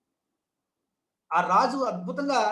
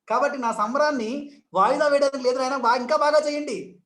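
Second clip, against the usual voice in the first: eager urging; 3 semitones higher, 4 dB louder than usual. Retold or imitated. Minister urging guests to keep celebrating, eager. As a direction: cheer them on to celebrate harder.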